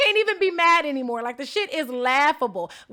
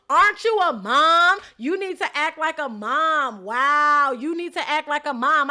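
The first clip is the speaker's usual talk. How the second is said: retold yell; 5 dB louder, slower than usual. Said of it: "yells out".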